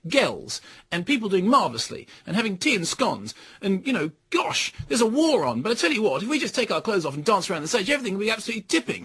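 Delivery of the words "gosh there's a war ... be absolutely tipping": brisk, higher mock-upper-class chirp, rushed at the end; hammed-up stiff-upper-lip optimism; plummy English type. Critic lampooning the film's cheery English types, mock posh and quick. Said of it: "populated by English types".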